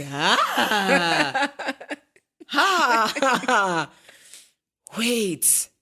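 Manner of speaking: high, loud laughing squeal of disbelief. Retold or imitated. Told of the radio star's call, laughing disbelief. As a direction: squeal with shocked joy.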